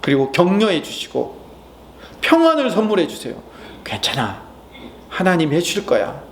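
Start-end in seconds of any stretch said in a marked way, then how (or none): 3.8-6.2 tender comfort to oneself; reassuring. Pretend. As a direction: tell yourself it will be alright. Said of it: "라고".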